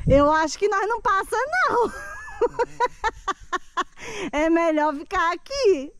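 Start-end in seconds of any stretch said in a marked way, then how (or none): 2.0-4.3 nervous high laugh. Real, not acted.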